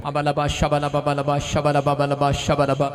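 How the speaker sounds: rhythmic nonsense-syllable chant; praying in tongues. Real, not acted. Preacher readying the crowd for a touch, praying in tongues. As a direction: chant strings of syllables in a level prayer tone.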